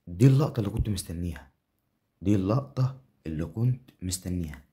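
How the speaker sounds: loud triumphant call; excited yell. Real, not acted. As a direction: shout it like the moment finally came. Celebrating awaited moment.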